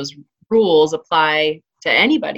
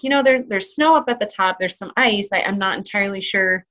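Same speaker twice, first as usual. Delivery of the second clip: tactful warning in a raised pitch; delicate suggestion; 4 semitones higher than usual. Retold or imitated. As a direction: imitate yourself gently cautioning a hiker. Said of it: "trying to delicately suggest".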